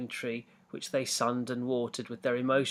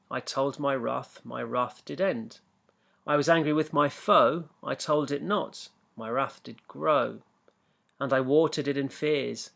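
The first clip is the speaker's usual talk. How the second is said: slow, measured recitation of the verse; slow reading of the poem to the class. Acted. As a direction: read it like a nursery rhyme, each line weighed. Reads the poem aloud.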